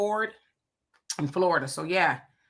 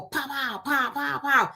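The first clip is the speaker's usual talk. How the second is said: quick, higher punching noises; mimed punch sounds; 5 semitones higher, 3 dB quieter, slower than usual. Retold or imitated. Host acts out someone punching down on others, mimed punch sounds. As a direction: imitate a flurry of jabs with the voice.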